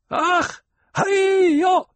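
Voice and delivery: high ringing call across the sand; traditional shout. A narrator's reading. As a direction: yell it out to the whole troop. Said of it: "he shouted in the traditional call".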